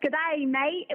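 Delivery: a light, half-hearted Australian accent. Shown as a demonstration. Host asks her to try one, shy attempt at an Australian accent. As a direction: toss off a barely-there Australian accent. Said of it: "Why don't you try to do an Australian accent?".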